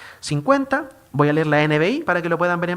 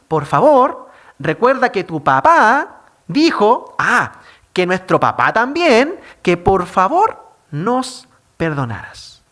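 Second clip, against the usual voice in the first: pleading brothers; 5 dB louder, slower than usual. Retold or imitated. Brothers beg José via messenger.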